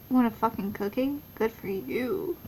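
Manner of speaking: zacht en traag sarcastisch; sarcastic. Real, not acted. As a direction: zeg het droog spottend. Sarcastic retort to character.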